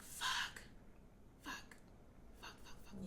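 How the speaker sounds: unvoiced repeated cursing, spaced out; whispered dismay. Mom realizing her daughter learned panic, whispered self-reproach. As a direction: whisper it to yourself as the guilt lands. Retold silent dismay at child's apology.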